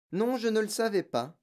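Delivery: pleasantly amused; smiling. A narrator's reading. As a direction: answer the child through a smile. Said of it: "dit mademoiselle Candy en souriant".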